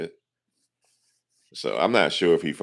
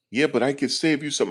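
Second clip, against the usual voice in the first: mocking salesman; 11 semitones higher than usual. Agent pitching over the claim.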